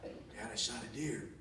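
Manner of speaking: slow, laughing answer; laughing reply. Retold or imitated. Son answering dad with a laugh. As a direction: tell him through a laugh.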